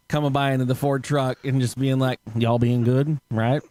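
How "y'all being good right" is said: lightly voiced Southern ranger; white boy ranger. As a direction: imitate a ranger checking in from his truck. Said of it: "pretty accurate for fucking white boy ranger".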